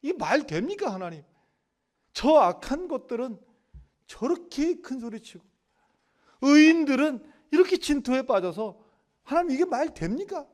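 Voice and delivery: high-pitched, agitated protest to God; pleading complaint. Acted. Preacher voices Habakkuk complaining to God about the wicked, high impassioned protest. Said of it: "이렇게 하소연했어요".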